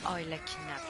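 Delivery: ordinary talk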